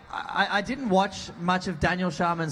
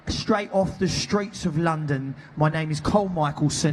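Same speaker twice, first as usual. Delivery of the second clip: put-on London street accent. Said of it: "I should have done a different accent for Cole".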